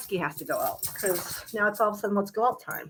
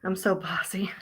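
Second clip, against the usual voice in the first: whisper; 4 dB quieter than usual. Real, not acted. Muttered aside.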